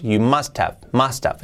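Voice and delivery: "must have" run together as "mustav"; linked words. Shown as a demonstration. Teacher shows learners the union, "must have" linked as "mustav". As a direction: drop the H and link "must have". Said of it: "Cuando lo unimos".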